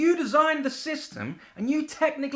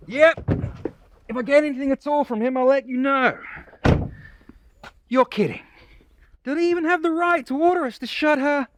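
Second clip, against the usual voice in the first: brisk phone call, speaking up; talking into a phone to his boss; 5 dB louder than usual. Acted. Cooper on the phone to his boss, brisk and firm.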